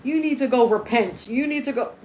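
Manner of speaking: mild mock of a commenter telling her to repent; mocking a chat troll. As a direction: lightly mimic a pushy commenter. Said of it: "They want you to go".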